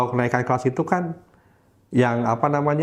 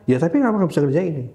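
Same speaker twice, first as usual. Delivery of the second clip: teacher pressing; 5 semitones higher, much faster than usual. Retold or imitated. Teacher voiced in story.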